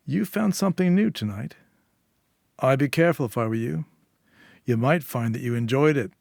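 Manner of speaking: lightly voiced warning. Eddie warns at doorway.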